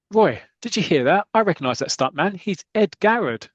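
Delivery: high, loud urgent recognition; excited Bomber. Retold or imitated. Bomber tells Roy he recognises the stuntman, excited. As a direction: burst out with the discovery. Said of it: "Bomber's going".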